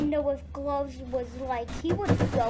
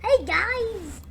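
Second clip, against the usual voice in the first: higher, louder call; 9 semitones higher, 7 dB louder than usual. Acted. Story character hailing his friends, high loud call. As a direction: call out to friends across the room.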